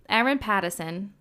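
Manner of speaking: Erin Patterson in a failed Australian accent that slips toward Boston; attempted Australian accent. Shown as a demonstration. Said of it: "No, that just sounds Boston".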